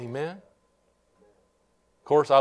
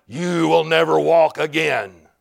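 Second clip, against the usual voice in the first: lightly voiced devil, drawn out; devil's taunt; slower than usual. Devil taunting a bedridden man, slow taunt. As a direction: slowly pronounce a taunting doom. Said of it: "the devil was like".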